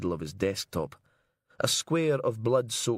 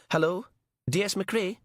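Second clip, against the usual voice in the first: gentle nurse; 11 semitones higher than usual. Acted. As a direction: coax him to stop, kindly and high. Nurse on the phone.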